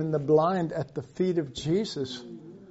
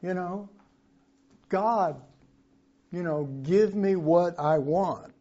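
lightly voiced weeping Mary, pleading; a touch of tearful pleading to God; mock crying mother; 3 semitones higher than usual. Preacher voices Mary weeping at the cross, mildly tearful. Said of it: "And she's crying. And she's going".

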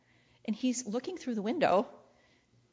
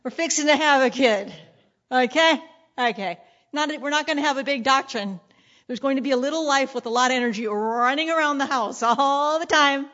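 pregnant wife; 2 semitones higher, 4 dB louder than usual. Retold or imitated. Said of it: "she's like".

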